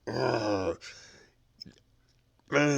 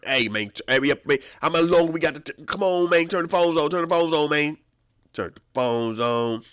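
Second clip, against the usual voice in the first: loud, higher frantic pleading; impatient yelling; 5 semitones higher, 7 dB louder than usual. Acted. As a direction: hurry them up, getting louder. Impatient inmate waiting for phones.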